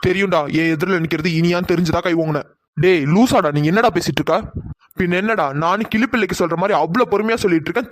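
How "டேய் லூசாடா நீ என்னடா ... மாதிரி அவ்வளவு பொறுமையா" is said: angry outburst. Acted. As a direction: bark it out in shock. Friend snaps at Akil.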